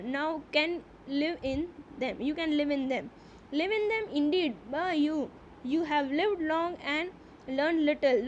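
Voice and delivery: slow, deliberate reading aloud of the English text; slow story reading. A narrator's reading. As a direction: read each phrase slowly, as a teacher before translating. (ધીમે ધીમે વાર્તાનું વાંચન)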